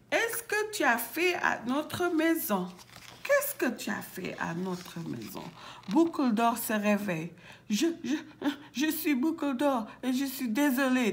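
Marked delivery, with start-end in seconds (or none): 0.1-2.7 high-pitched questioning; high little voice. Acted. Bébé ours questions the intruder, high voice. 7.7-11.1 higher, hesitant little voice; small voice. Acted. Boucle d'Or apologizes to the bears, small timid voice. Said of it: "d'une petite voix".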